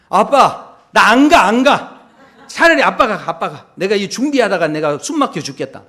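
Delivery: loud whiny protest, half laughing; fed-up child protest. Retold or imitated. Daughter refusing her father, loud and exasperated. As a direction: throw a tantrum at dad and give up. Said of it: "그러면서 이제 하지 않겠습니까".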